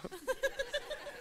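soft high laugh. Real, not acted. Laughs after mimicking the girl's look.

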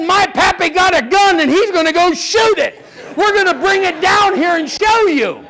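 a hint of a defiant little kid; insistent little kid. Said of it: "the little kid said".

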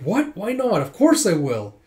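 high, startled objection; indignant protest. Acted. Indignant protest at being left out.

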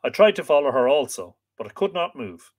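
calm storyteller reading a myth; story narration. A narrator's reading. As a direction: read aloud to listeners, measured.

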